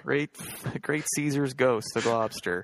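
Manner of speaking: lightly voiced old prospector; a hint of a crusty old prospector. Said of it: "That's more Old Prospector".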